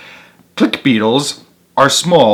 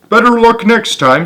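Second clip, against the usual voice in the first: higher, gentle encouragement; kindly turtle; 10 semitones higher, 4 dB louder than usual. A narrator's reading. Turtle passing by encourages the beetle, high and gentle.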